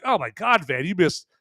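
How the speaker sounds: high, whiny imitation of an upset viewer; mock complaint. Imagined viewer protests the missed vampires to Van, mock whining. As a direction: list them off in mock outrage. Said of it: "Like, wah, wah".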